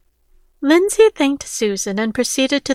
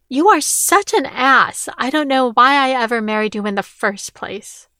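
angry retort. Acted. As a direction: let the ex-wife's contempt bite. Ex-wife insults Rick.

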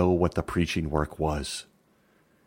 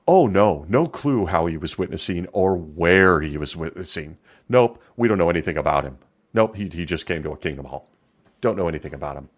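louder, quick brushing-off denials; hammed-up denial on the witness stand; mock evasive denial; 3 dB louder than usual. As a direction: wave the question away, playing dumb. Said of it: "gets on the stand and says".

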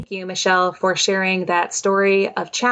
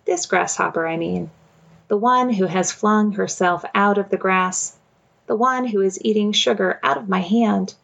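measured, unhurried poetry recitation; poem reading. Acted. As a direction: read it like a poem aloud. Reads Mary Oliver poem.

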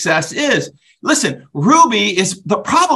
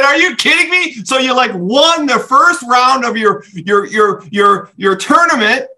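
can't believe it, laughing through it; incredulous retold reaction, laughing along; laughing disbelief; 7 semitones higher than usual. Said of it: "I'm laughing so hard".

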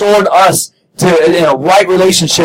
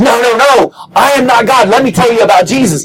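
a higher, earnest no; Paul protesting; 4 semitones higher than usual. Retold or imitated. Paul turns away worship from the villagers, a bit higher. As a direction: insist firmly but kindly. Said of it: "And Paul says".

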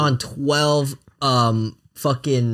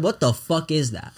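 laughing quote; 4 dB quieter than usual. Retold or imitated. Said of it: "we said".

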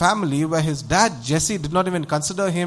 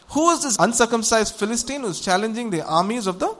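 acted scornful outrage, pitched up; righteous indignation in a raised pitch; indignant challenge; 4 semitones higher than usual. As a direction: throw down a challenge to the enemy. David challenges Goliath, indignant.

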